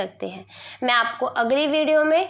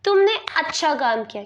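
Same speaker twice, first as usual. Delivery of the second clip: praising. Shown as a demonstration. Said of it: "किसी को शाबाशी दे रहे".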